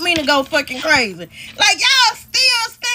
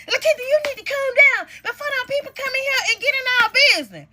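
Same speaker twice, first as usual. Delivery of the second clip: mock pleading sister; 6 semitones higher, faster than usual. Sister urging calm.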